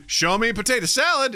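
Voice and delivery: high, loud cartoon quote; Family Guy quote. Co-host quoting a cartoon reference, high mock shout. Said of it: "a weird Family Guy reference".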